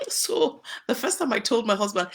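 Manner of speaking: starting with a laugh; amused. Real, not acted. Wife recalling husband's laughter at her dialect, amused. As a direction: chuckle into the sentence.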